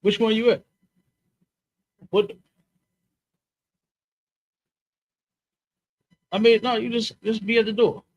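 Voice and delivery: calling out to someone at the door; yelling across the room. Real, not acted.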